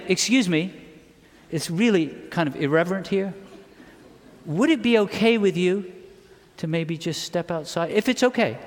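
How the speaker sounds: hesitant, softened, overly deferential request; mock-timid asking; mock politeness. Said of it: "he didn't come and say".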